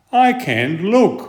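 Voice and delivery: high, mild whimper; a hint of a little sister's whimper. A narrator's reading. Sister covering her eyes, mildly whimpering. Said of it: "whimpered his sister Alison".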